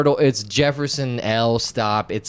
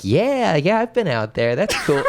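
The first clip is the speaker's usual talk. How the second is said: mock flirty friend; 6 semitones higher than usual. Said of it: "He's like".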